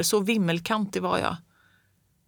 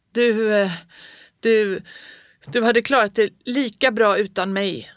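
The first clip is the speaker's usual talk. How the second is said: shouted; 3 semitones higher, 5 dB louder than usual. A narrator's reading. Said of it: "jag skrek det".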